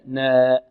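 نا tilted toward "nee"; نا as a leaning "neh"; wrong imala. Shown as a demonstration. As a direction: front and raise the a of نا. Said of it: "تقليل أو إمالة".

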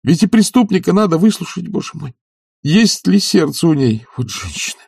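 anguished outburst. Acted. Despairing outburst.

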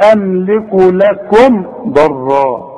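لكم with the m said clearly, lips shut; slow recitation, the m of لكم fully shown; careful tajweed izhar on لكم; slow Quran recitation. Shown as a demonstration. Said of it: "شوف،".

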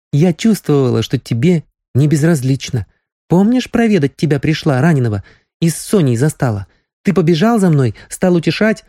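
put-on young girl, insistent. Nastya recalls his fright.

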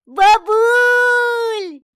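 high, loud joyful call; joyful shout. Acted. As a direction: shout for granny, overjoyed. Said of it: "закричал".

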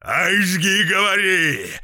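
loud, high whooping encouragement; rowdy cheer; dance cheer. A narrator's reading. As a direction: egg the dancer on.

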